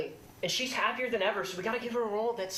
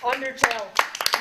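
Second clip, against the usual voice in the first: dramatic trailer voice; 2 semitones higher, 6 dB louder, much slower than usual. Pretend. Dramatic trailer-style title drop.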